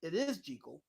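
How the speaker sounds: Jekyll with a long ee, JEE-kul; original pronunciation. Shown as a demonstration. Concluding how the old film says it, JEE-kul pronunciation. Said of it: "that's how they pronounce it".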